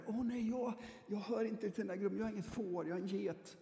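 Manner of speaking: mock anxious sheep fearing it's a goat; worried believer. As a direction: sound like someone afraid they don't belong.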